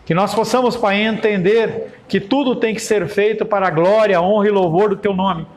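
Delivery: oração pastoral solene e pausada. Acted. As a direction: ore pela congregação, com reverência. Leads a closing prayer. (oração fervorosa de culto)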